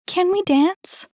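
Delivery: high, loud, eager plea; bursting to go; feverish eagerness. A narrator's reading. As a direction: ask with excited energy, pitched high. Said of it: "a feverish energy in her eyes".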